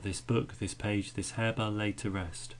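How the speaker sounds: "this" kept light, with weight on book, page and harebell; unstressed THIS. Shown as a demonstration. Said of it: "he unstresses that".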